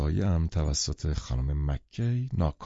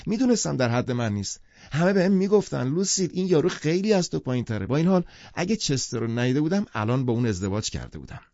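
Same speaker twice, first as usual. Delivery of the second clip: loud and serious; 9 semitones higher than usual. A narrator's reading. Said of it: "و بلند و جدی ادامه داد".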